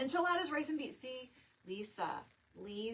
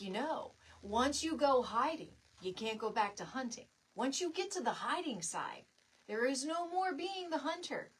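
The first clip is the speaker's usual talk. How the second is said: mock-grave warning; 2 semitones higher, 4 dB louder than usual. Mom warns son dramatically.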